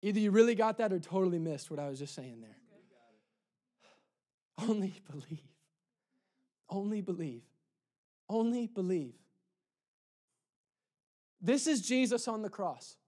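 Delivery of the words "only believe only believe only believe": soft, spaced-out refrain; hushed appeal. Real, not acted. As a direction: let it sink in quietly. Preacher repeats key phrase softly.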